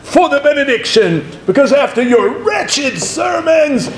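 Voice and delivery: high, stretched-out mock Australian proclamation dropping back at the end; Australian accent. Seminary professor ridiculing students' wretched sermons, in a mock Australian accent. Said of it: "said in his Australian accent".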